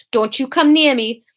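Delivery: firm warning, trying for Welsh accent; attempted Welsh accent. Shown as a demonstration. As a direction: feel for a Welsh lilt. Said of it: "can't get back into Welsh".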